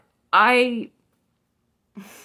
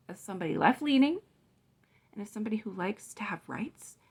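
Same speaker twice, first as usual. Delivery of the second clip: softer, intimate confiding; hushed; 6 dB quieter than usual. Real, not acted. Vlogger confides her convictions to viewers in a hushed near whisper. Earnest appeal to viewers about rights.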